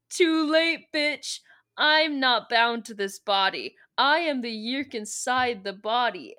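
forceful, theatrical monologue; mock villain gloating. Taylor boasting she outlives the blast, mock-gloating declamation. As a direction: declaim it in triumph.

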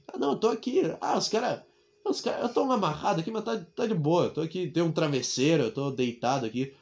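soft, casual phone call as a hostage; lightly played calm hostage; mock nonchalant. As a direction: shrug it off to the family on the phone. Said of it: "não vou demonstrar desespero no telefone".

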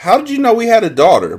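a mother caught off guard; a touch of startled wonder, quick; mild surprise. Acted. Mother asks surprised question.

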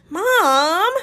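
high, loud protesting cry; screech. Acted. Amanda embarrassed by her mother's teasing, high screech. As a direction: shriek it at your mother. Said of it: "Amanda screeched".

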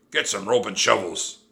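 loud roared order; Captain Bones. A narrator's reading. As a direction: roar orders at the crew. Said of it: "he roared at his men".

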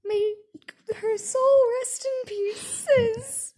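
mock mourning.

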